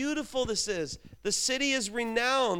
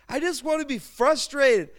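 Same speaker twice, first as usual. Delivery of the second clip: whiny complaint; 6 semitones higher, 6 dB louder than usual. Retold or imitated. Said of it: "And I'd say".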